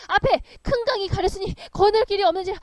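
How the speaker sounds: loud, high and urgent; frantic cry at the river; hurried anger. Acted. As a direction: blurt it out in a rush of anger. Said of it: "무척 화가 나고 바쁘게".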